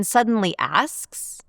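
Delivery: "asks" rising like a question; unsure upturn on "asks"; question inflection. Shown as a demonstration. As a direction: swing "asks" upward, unsure. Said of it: "like they're not sure".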